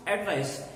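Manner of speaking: ADVICE stressed as AD-vice; first-syllable stress. Shown as a demonstration. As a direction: hit AD in ADVICE. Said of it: "the stress is on the first syllable".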